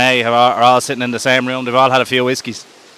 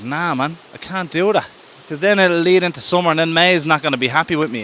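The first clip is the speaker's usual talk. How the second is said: higher-pitched, lightly acted objection; reluctant excuse-making, pitched up a little; mild protesting refusal; 4 semitones higher than usual. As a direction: push back as a reluctant April. April refuses March's plea in story.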